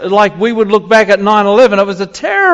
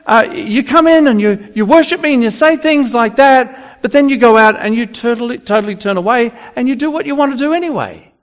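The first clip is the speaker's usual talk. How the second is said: God rebuking; 7 semitones higher than usual. Retold or imitated. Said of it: "And God is saying".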